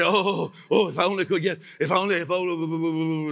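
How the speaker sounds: hammed-up longing sigh, fast and breathless; mock whining wish. Preacher mimics needy churchgoers, mock whining. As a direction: whine it like a pitiful churchgoer. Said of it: "they go on like that".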